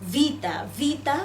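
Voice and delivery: ভিতা with a voiced v, between ব and ভ. Shown as a demonstration. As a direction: begin ভিতা on a sound midway between b and bh. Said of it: "ভয়ের মাঝামাঝি একটা sound".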